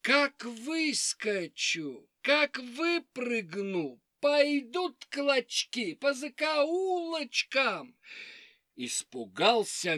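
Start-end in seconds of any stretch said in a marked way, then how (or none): 0.0-8.0 menacing fox. Acted. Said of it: "лиса отвечает".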